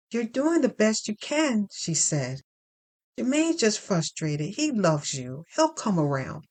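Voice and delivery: lightly voiced Reverend Packard. Reverend comforting Dana after church, a lightly voiced gentle lady. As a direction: soothe her gently as the reverend.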